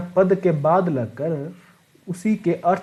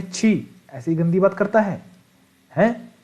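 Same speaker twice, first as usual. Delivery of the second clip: mock disgusted scolding, higher; 3 semitones higher than usual. Shown as a demonstration. Teacher acting disgust at a rude remark. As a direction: scold someone for dirty talk in mock disgust. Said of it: "छी आपका expression है".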